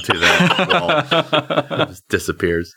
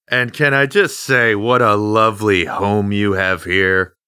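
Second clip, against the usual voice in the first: nervous overly polite. Acted. Sucking up to the judge.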